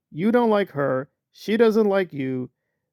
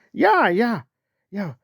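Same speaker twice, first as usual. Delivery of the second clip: mock Aaron; 5 semitones higher, slower than usual. Mocking Aaron agreeing.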